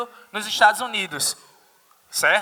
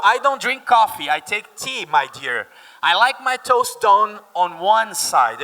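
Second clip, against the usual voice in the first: British lyric; slower than usual. Shown as a demonstration. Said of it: "quoting the song lyrics".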